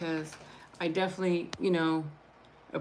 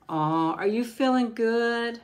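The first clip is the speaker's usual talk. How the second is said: sweet slowed coo to her little dog; pet talk; 4 semitones higher, 5 dB louder, slower than usual. Real, not acted.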